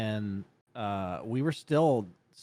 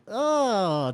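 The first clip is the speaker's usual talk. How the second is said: retold dismay; 7 semitones higher than usual. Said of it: "I was like".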